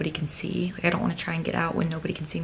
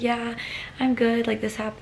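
higher-pitched retold reassurance; putting on okay; 5 semitones higher than usual. Shaken rider answers two little boys, putting on okay. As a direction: imitate insisting you're fine, pitched up.

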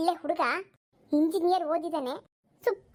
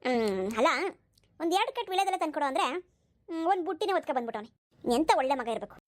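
put-on an old mother-in-law doting on her son; 2 semitones lower than usual. (ಮಗನನ್ನು ಹೊಗಳುವ ಮುದುಕಿ ಅತ್ತೆ ಧ್ವನಿ)

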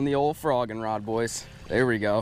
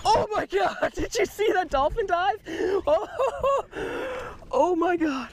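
excited. Real, not acted. Dolphin dives, giddy laughter.

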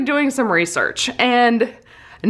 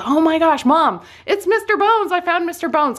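put-on higher, thrilled little-boy voice; mock excited child calling to mom; imitating excited young son; 7 semitones higher than usual. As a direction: squeal it like a kid who found treasure. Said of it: "and he says".

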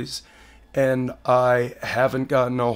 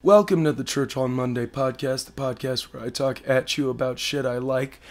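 hoarse sick voice. Real, not acted. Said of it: "I sound like shit right now".

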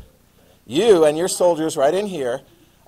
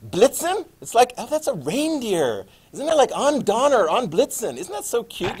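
high, cutesy mock student; playing the naive student who thinks of reindeer; 5 semitones higher than usual. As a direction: tease the reindeer guess in a sugary voice. Mocking students' reindeer guess.

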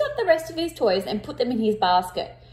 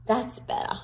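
whisper; 5 dB quieter than usual. Acted. Relieved after counting.

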